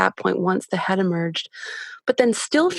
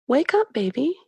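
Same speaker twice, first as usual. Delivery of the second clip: clear curious voice; 5 semitones higher than usual. Retold or imitated. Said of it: "my voice is very kind of clear and, and almost curious".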